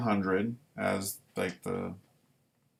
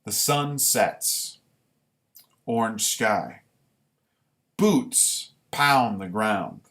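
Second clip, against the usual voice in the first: story reading. A narrator's reading. Veteran reads his boot camp story to viewers, measured. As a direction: paint the march one image at a time.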